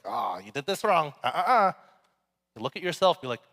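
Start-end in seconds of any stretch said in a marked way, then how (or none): 0.0-1.7 tut-tutting fault-finder, rising on the uh-uhs; mock criticism. Preacher imitating people who criticize others, mock scolding. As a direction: imitate someone picking at faults. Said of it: "constantly looking to criticize people".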